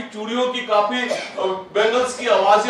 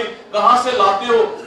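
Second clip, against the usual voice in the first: imposing voice; slower than usual. Retold or imitated. A rich madam quizzing the candle seller, slow and imposing. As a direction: mimic a haughty madam looking down on him. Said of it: "बड़ी रुबाबदार आवाज आ गई".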